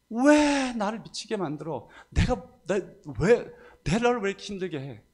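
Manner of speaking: high-pitched mock yell, held back in volume; re-enacted yelling. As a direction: wail the accusing "why" as a retold outburst. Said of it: "한 시간가량을 소리를 질렀어요". (소리 지르며 따지던 모습을 높은 목소리로 재연)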